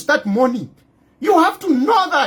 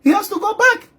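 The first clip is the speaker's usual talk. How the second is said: mock the officials who send him away, laughing; mocking the government; 3 semitones higher than usual. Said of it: "The government here will say".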